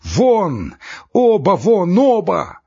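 loud, high cries of rage; frenzied shout. A narrator's reading. Trembling doctor throws both visitors out, frenzied shout. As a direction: order them out, beside yourself. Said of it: "крикнул он не своим голосом".

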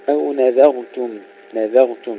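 "نذرتم" with thin ذ and full ر; light dhal, heavy ra. Shown as a demonstration. Teacher drills the word for learners, light dhal and heavy ra. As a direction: keep ذ light, then thicken ر in "نذرتم". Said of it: "ترقيق الذال وتفخيم الراء".

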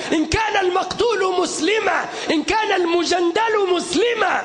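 fiery shouted sermon; soapbox orator. Acted. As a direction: preach it with full force to a crowd.

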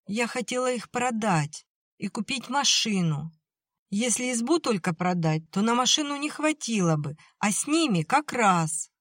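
put-on high, upset young girl's voice; a girl close to tears explaining; tearful girl. A narrator's reading.

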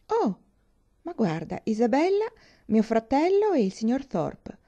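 lightly voiced Catherine, lifted surprise; surprised young heroine. Catherine exclaiming on seeing her brother arrive, lightly surprised. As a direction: spot visitors with a lift in the voice.

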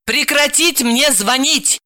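slow, high-pitched angry command; irate telling-off; barked order. Acted. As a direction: spell it out furiously. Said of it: "рявкнула трубку Далила".

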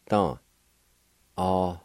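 Ahuidetan drawn out slowly, every syllable clear, faint H before hui; slow teacher's model of Ahuidetan; slow demonstration. Shown as a demonstration. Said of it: "like this".

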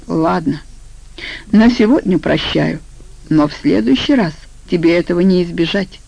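mildly sullen, grudging pardon; a touch of gloom, holding back the threat; gloomy. Acted. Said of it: "И мрачно сказал". (слегка мрачно)

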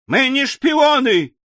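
very high, drawn-out yell; slow, high-pitched outraged wail; wailing protest. A narrator's reading. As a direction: cry out in desperate, sincere denial. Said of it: "завопил мистер Пиквик таким голосом".

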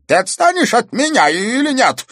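put-on old man losing his temper at the girl; enraged. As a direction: blow up at her, fed up. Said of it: "озверел старик".

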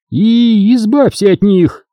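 high loud slow command; high loud strict matron; ordering. A narrator's reading. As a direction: order it through a forced smile. Obin ordering disposal.

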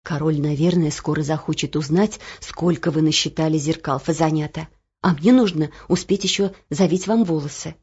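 a hint of a motherly cook; lightly voiced kind cook. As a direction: speak as the kind old cook waking the girls.

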